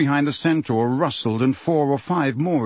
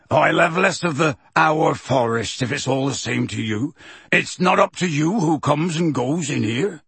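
angry; 2 semitones higher than usual. Acted. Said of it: "said Hagrid angrily".

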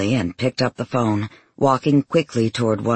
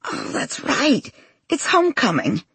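smiling voice. Acted. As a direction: let a smile come through. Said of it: "the sound of her smile".

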